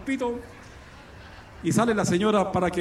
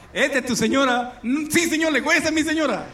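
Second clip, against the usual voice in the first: diálogo dicho entre risas, más agudo; riendo; 7 semitones higher than usual. Acted. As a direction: se ríe mientras hace las voces. (el tío responde a Jesús riéndose a carcajadas)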